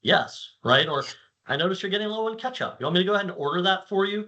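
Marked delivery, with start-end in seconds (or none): 1.5-4.2 higher, fast, chirpy helper voice; eager AI assistant. Retold or imitated. Speaker imitates a proactive AI offering to reorder ketchup, higher and fast. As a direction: play the overly helpful smart assistant, quick and bright. Voicing AI assistant ordering groceries.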